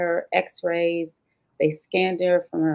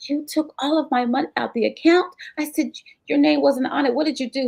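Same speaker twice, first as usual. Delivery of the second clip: mild angry retort; 8 semitones higher than usual. Retold or imitated. Wife confronting husband about money.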